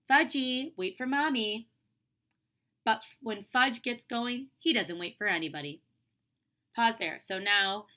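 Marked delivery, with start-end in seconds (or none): 0.1-1.7 put-on mother hollering after a little child, higher and louder; read-aloud holler, pitched up. A narrator's reading. 2.8-5.8 put-on animated storytelling to children; expressive classroom reading; story read-aloud.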